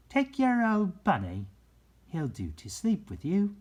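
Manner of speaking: brisk nurse Nana. A narrator's reading. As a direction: hand the bunny over like a hurried nurse. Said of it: "she said".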